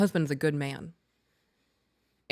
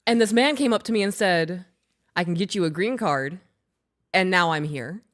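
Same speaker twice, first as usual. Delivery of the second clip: Hispanic serviceman; 4 dB louder than usual. Retold or imitated. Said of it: "there was a Hispanic man".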